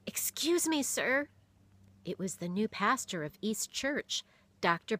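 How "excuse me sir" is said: high, whispered gasp of surprise; gasped apology. A narrator's reading. Boy recognizing the pastor, gasping in surprise. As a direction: catch the breath, then apologize. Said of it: "He gasped".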